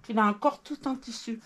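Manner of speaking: talking with a mouthful of cake; words round a bite of food; mouth full. Real, not acted. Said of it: "je parle la bouche pleine". (la bouche pleine)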